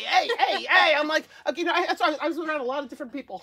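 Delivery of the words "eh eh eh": mock Canadian "eh" tag; Canadian accent. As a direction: imitate Canadian friends' little "eh". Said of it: "my Canadian friends".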